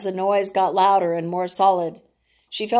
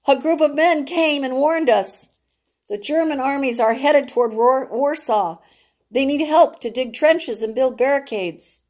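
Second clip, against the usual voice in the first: urgent warning; 5 semitones higher than usual. Acted. Jonathan breathless, warning family.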